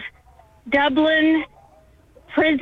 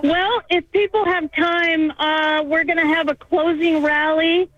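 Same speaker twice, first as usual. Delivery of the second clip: talking while winded from walking; slightly breathless, catching air; out of breath. Real, not acted. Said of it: "I apologize if I'm a little bit out of breath".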